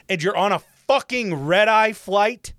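high, loud outburst; exasperated rant. Real, not acted. Passenger ranting about kids on a red-eye, exasperated. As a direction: raise the voice in fed-up outrage.

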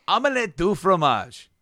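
high-pitched cartoon reply; mock cartoon-boy voice. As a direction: imitate a boy answering the computer, pitch jumped up. Boy answering the lab computer.

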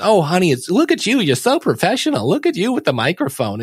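high, gushing proud-mom voice, lightly put on; mock mom cooing over her kid; doting mom. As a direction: coo like a mother fussing over her child. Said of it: "and mom says".

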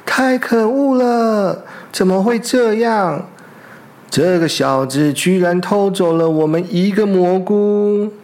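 furious they were robbed; outraged complaint. Acted. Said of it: "他们两个喊着".

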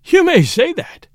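high, loud, drawn-out wild outburst; wild cry. A narrator's reading. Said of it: "he cried with a wild laugh".

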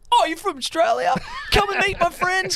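very high-pitched, imitated stranger turned instant pal; mock excited welcome. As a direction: imitate a thrilled new friend, way up high. Acted bar stranger suddenly turning friendly.

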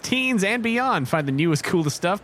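lively commercial patter; ad read. Acted. Co-player recites the Five Below blurb, ad-read delivery. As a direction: sell it like a store advert. Reads store's slogan aloud.

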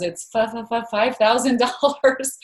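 retold scared stammer on five; imitating a frightened stutter asking for money; nervous stutter. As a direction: stumble over fi- fi- five, half-acted fear. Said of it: "she stuttered".

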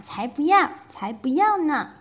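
loud, high refusal; shouting. Acted. Froggy refusing his mother, a loud high shout. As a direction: yell that you won't go to sleep. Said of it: "他大喊".

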